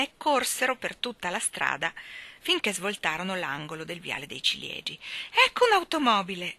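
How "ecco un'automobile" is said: put-on high, loud excited child; electrified cry; thrilled shout. A narrator's reading. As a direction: call out the exciting sighting. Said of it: "gridò Michael elettrizzato".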